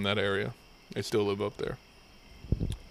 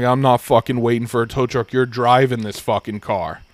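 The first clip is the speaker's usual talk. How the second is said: pissed-off trooper; 6 dB louder than usual. Retold or imitated. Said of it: "he was fucking pissed".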